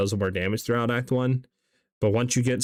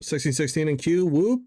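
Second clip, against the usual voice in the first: excited; 4 semitones higher than usual. Real, not acted. Excited about queue position.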